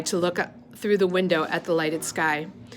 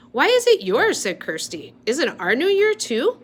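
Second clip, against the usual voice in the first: put-on child voice; 8 semitones higher, 4 dB louder than usual. A narrator's reading.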